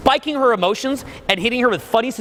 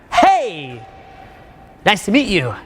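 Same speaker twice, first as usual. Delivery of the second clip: overly loud greeting; slower than usual. Shown as a demonstration. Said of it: "Like that, it doesn't work".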